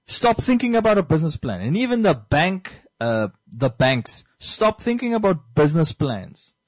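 impassioned plea, mildly worked up; slightly emotional. Real, not acted. Host urging Namibians and banks to drop business plans, slightly emotional. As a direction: press the point with some feeling. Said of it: "I'm slightly emotional".

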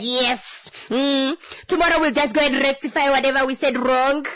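a hint of a carefree shrug; breezy self-assured. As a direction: brush it off cheerfully. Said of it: "I'm like".

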